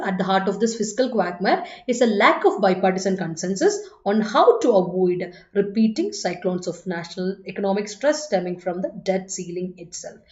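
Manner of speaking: slow, careful English read-aloud, word by word; slow dictation reading. Shown as a demonstration. Teacher reading the exam sentence to the class, slow and careful. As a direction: read it out slowly for the students.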